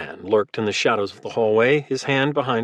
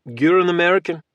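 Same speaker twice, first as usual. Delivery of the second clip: put-on flat Russian accent; 6 semitones higher, 3 dB louder than usual. A narrator's reading. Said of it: "in a flat, thick Russian accent".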